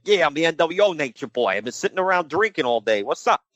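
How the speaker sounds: mock New York accent, loose and boastful; Buddy Landell. Host playing a drinking wrestler, mock New York accent. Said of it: "I don't know why I'm doing that accent".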